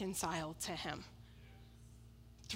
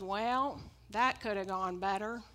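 Andrew voice. Retold or imitated. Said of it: "That's my best Andrew voice that I can do".

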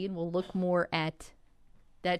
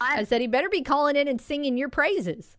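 said louder for the caller; louder repeat; 5 semitones higher, 3 dB louder than usual. Real, not acted. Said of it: "do what?".

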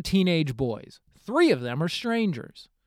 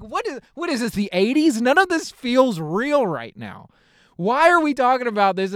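put-on a teen at breakfast hearing the dad talk, squealing in panic; mock panic; 8 semitones higher than usual. Panicky shriek of disbelief. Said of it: "I was just terrified".

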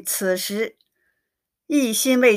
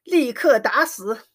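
repeated shouting; 3 semitones higher than usual. Acted. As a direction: hammer out each order as a mock furious father. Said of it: "一连叠声地叫着".

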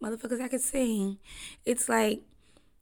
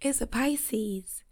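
whispered aside; 2 semitones higher, much slower than usual. Real, not acted. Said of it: "I'm like, he".

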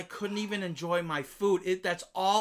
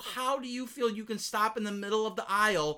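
raised, high-pitched indignation; acted exasperated rant; 6 semitones higher, 4 dB louder than usual. Shopper scolding people blocking the Walmart aisle, indignant. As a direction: demand an answer, loud and incredulous.

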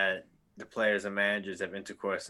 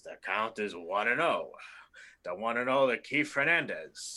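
Jack Buck impression. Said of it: "And he would say like this".

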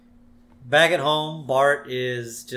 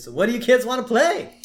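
Ned Flanders voice; 11 semitones higher, 7 dB louder than usual. Retold or imitated. Ned voiced asking kids.

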